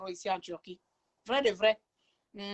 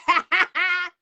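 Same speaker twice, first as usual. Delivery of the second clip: a burst of loud laughter; 8 semitones higher, 12 dB louder than usual. Real, not acted. Vlogger laughing at her own broken English, loud laugh.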